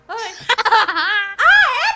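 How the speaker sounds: loud laugh. Acted. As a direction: laugh out as if caught off guard. Risada antes de acusar o príncipe. (risada alta e aguda)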